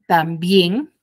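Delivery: también with the final BIÉN stressed; teacher's demo of también, weight on BIÉN; stress on last syllable. Shown as a demonstration. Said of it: "tiene la mayor fuerza de voz en la última sílaba".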